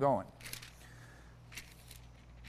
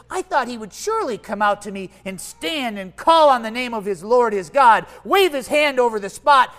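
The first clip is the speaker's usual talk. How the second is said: angry; 3 semitones higher, 7 dB louder than usual. Acted. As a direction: rail against the prophet's slight. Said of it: "went away angry and said".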